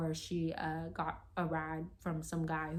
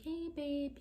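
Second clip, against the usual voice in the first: gentle waking; 9 semitones higher than usual. Retold or imitated. Drunk girlfriend waking her boyfriend late, gently. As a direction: imitate gently waking a partner. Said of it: "gently woke up my boyfriend".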